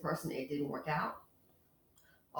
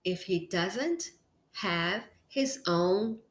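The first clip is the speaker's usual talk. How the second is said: manly voice; 3 dB louder, much slower than usual. Pretend. Vlogger warning ladies in a mock manly voice. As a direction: drop into a hammed-up macho voice. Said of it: "in my manly voice".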